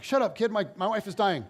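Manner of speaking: mock-urgent telling-off; exasperated retort. Acted snap at chattering kid.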